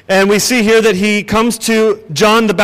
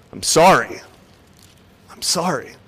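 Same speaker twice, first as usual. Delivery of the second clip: sincere apology. Shown as a demonstration. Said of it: "love often means".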